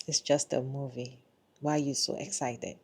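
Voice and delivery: soft, understated put-down; mildly dismissive. Acted. Husband to excited wife after the movie, mildly dismissive. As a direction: play down the excitement, softly.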